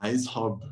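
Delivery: "Aiz hub" repeated clearly in Arabic, falling on "hub"; Arabic phrase repeated. Shown as a demonstration. Repeating the Arabic "Aiz hub" for the host. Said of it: "How do you say it in Arabic?".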